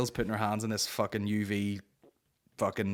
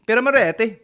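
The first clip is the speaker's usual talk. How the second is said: high, loud hammed-up cry; exaggerated, high-pitched outburst; mock exclamation; 12 semitones higher, 12 dB louder than usual. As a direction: belt out the brand name with mock gusto. Repeats the beer name as exclamation.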